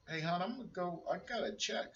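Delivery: high, amazed telling wife about the check; shocked. Retold or imitated. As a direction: sound stunned you got paid. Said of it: "Why do you sound so shocked?".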